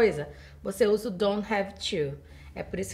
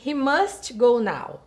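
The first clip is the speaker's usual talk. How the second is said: "He must go now" read slowly, word by word; slow model sentence; 2 semitones higher, 4 dB louder, slower than usual. Shown as a demonstration. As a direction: spell it out slowly for the class. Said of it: "olha ali no slide".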